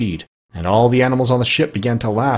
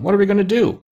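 higher, rising panic; panicked; 9 semitones higher, faster than usual. Acted. Pig Gub-Gub fearing the pirates, panicked. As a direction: squeal it in alarm.

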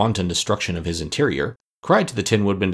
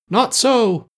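hollow voice; 13 semitones higher, 4 dB louder than usual. Acted. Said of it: "claimed a hollow voice".

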